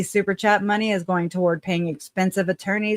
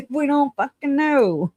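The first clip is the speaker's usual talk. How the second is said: laughing, much higher, slower; 9 semitones higher than usual. Real, not acted. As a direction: break into laughter mid-sentence. Laughing at own stream comment.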